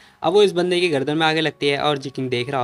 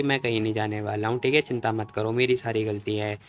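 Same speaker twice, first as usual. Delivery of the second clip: soft reassurance; 4 semitones lower, 5 dB quieter than usual. Acted. Wounded hero comforts the girl.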